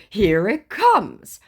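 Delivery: high, slow put-on scammer voice; mock scammer voice. Scammer promising his sad story, high slow mock voice. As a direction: announce it with relish. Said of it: "he said".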